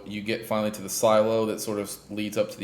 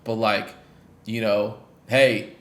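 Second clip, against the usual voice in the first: put-on excited kid; 3 semitones higher, 4 dB louder than usual. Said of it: "immediately is like".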